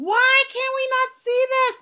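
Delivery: high, loud exasperated cry.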